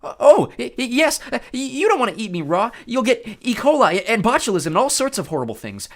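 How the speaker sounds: high, loud nervous babble; stammering frightened satyr. Acted. Grover bargaining with the Cyclops, stammering high voice. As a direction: talk fast to save your skin.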